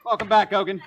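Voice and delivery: loud, high announcer's welcome; booming, excited hail; rousing welcome shout. Acted. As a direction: shout it like a big comeback. Game master hails the returning character.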